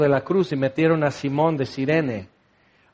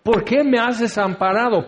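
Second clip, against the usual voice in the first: crying out; 4 semitones higher than usual. Retold or imitated. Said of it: "clama y grita".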